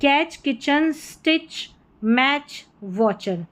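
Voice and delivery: कैच, किचन, स्टिच, मैच, वॉचर with a ch sound, no separate t; TCH as ch. Shown as a demonstration. Teacher modelling TCH words, ch demonstration. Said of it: "टीसीएच का उच्चारण साथ में होगा च".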